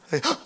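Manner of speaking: imitated sobbing gasps; sollozo imitado. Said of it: "que estoy en sollozo". (sollozos fingidos al relatar)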